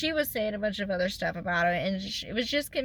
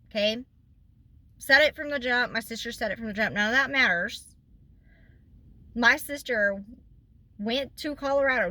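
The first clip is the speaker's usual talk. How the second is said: normal talking voice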